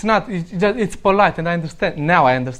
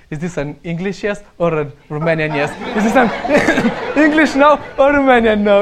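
teasing through laughter, slowing down; mock the two kinds of yes while laughing; laughing tease. Friend teasing Vlad about English versus Romanian yes, laughing. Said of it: "he started to tease me".

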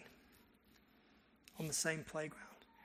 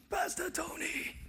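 much higher, slow, drawn-out joyful call; kids calling out; 11 semitones higher, slower than usual. Retold or imitated. Schoolkids running to greet their pastor, high excited call. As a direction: sing it out like a crowd of excited kids.

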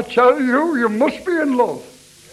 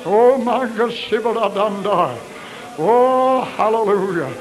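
fervent altar call. Acted. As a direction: push the congregation to raise their hands. Altar call at full force.

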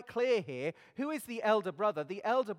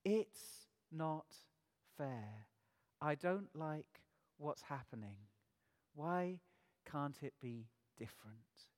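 fading complaint; 4 semitones lower, 6 dB quieter, slower than usual. Pretend. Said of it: "the complaint can go on".

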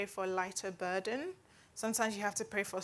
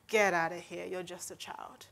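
dismissive; 4 semitones lower, 3 dB quieter than usual. Retold or imitated. Samuel brushing off David's offer to fight, low and dismissive. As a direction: lower mock brush-off, trailing to soft. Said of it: "how I pictured how Samuel responded".

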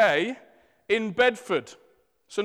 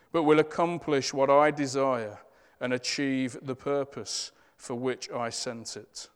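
scripture reading. Acted. Reads Isaiah over bowed heads.

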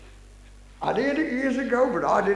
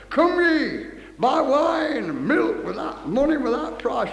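scripture proclamation; 4 semitones higher, slower than usual. Real, not acted. Reads scripture aloud to congregation.

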